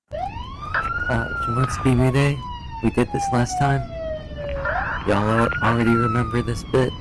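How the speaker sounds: police megaphone voice, way up high; through a megaphone. Pretend. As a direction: bark it through a bullhorn. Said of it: "I have something for this".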